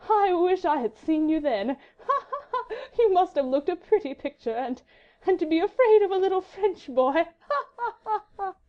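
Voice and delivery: high, laughing through the words; merry laugh. A narrator's reading. Marguerite mocking her husband, merry high laughter. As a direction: laugh merrily at him. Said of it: "with a long and merry laugh".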